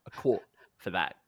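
put-on casual Australian accent, blunt and friendly. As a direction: quote the Australian paint guy in his Aussie accent. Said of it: "That accent was beautiful".

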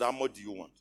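ordinary talk

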